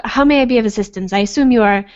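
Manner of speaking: lightly attempted British accent; wobbly mock-British. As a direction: try a formal British accent, not quite landing it. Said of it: "awesome British accent".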